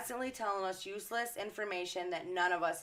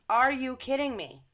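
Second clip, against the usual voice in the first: higher, louder second take of are you kidding me; higher incredulous repeat; 5 semitones higher, 4 dB louder than usual. Real, not acted. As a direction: pitch jumps up on the second are you kidding me, still loud.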